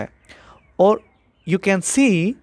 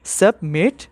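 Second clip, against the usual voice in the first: "submit" in two parts, "sub", pause, "mit"; split into syllables. Shown as a demonstration. Teacher shows students the two syllables, saying "submit" split as sub, mit. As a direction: break "submit" apart after "sub". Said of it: "two syllables".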